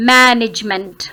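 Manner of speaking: "मैनेजमेंट" with a long first vowel; first-syllable stress. Shown as a demonstration. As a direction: lean on "मै" in "मैनेजमेंट". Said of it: "क्योंकि ए को हमने थोड़ा long करना है". ("मैनेजमेंट" में "मै" को लंबा करके)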